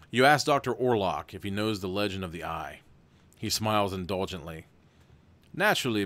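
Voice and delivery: even, steady storybook read; story narration. A narrator's reading. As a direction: read the gamebook aloud to the viewers. Reads gamebook narration.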